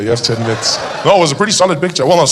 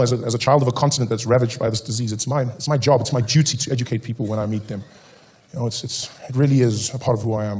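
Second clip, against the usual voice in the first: low, soft, solemn broadcaster; old SABC tone; 5 semitones lower, 6 dB quieter than usual. Pretend. Comedian mocking his duty, low solemn announcer tone. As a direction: play the grave public-service announcer. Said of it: "that old S A B C tone".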